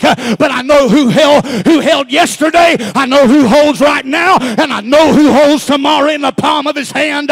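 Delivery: rising, emphatic pulpit sermon; fiery preaching. Acted. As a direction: preach it to the church with growing fire. Preacher builds to full force.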